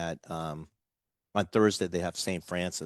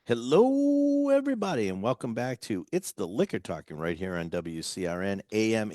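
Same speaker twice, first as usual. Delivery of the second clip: radio announcer. Acted. Radio show welcome back.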